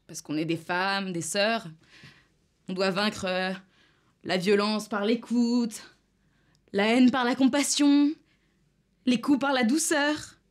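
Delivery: slow, drawn-out parody of noble platitudes; mocking recital. Activist parroting what women are told about violence, mocking.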